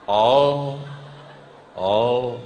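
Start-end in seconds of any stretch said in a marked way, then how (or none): none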